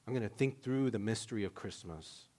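Mary musing softly. Retold or imitated. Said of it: "all she can do is just say".

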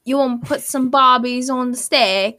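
hammed-up Australian ocker; a cartoon Australian bunny offering barbies; mock Australian accent. Co-host plays Easter Bunny in a mock Australian accent. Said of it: "losing our entire Australian audience".

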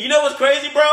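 frat bro. Real, not acted. Ranting after a wrong answer.

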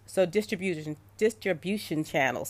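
tired, tripping over the words; jet lagged. Real, not acted. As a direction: jet lagged, stumbling on a tongue twister. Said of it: "I'm jet lagged".

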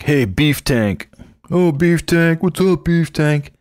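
hammed-up lady voice; mock Maude calling him nicknames. Maude's mock-sweet calling of Lester.

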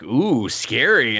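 slow, sarcastic "ooh, scary"; drawn-out mocking fake fear; mock scared. Mocking a fighter's threat, slow sarcastic drawl. Mocking unimpressed villain quote.

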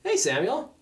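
imitating a composed older authority, gently firm; calm, firm. Mentor greeting the man who lost shoes, calm and firm. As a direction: greet with measured, unruffled firmness. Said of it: "in this very calm and firm voice".

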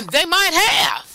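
laughing. Real, not acted. Laughing at the demons excuse.

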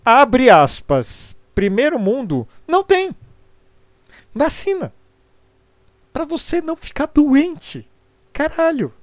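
high, loud exasperated outburst; indignant. Real, not acted. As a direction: burst out in disbelief. Indignant rant about vaccines.

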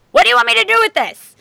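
mock a fed-up mom, quickly; exasperated mom. Mother puzzled by the dead fish, quick and baffled. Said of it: "her mom's like".

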